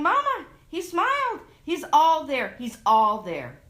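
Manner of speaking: high, loud shout of joy; boy yelling the news down the halls; joyful shout. A narrator's reading.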